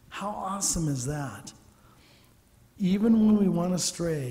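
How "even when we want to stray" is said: preaching push. Real, not acted. Preacher builds emphasis.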